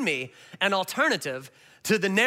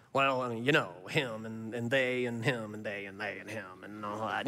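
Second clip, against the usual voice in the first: low, soft, indistinct grumbling mock Pharisees; grumbling mutter; 10 semitones lower, 8 dB quieter than usual. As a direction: mumble the accusation under your breath like a sulking crowd. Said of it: "They mutter their accusation".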